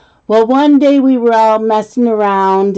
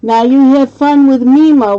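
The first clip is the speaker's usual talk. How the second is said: grandma's sendoff; 4 semitones higher, 5 dB louder than usual. Retold or imitated. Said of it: "She goes".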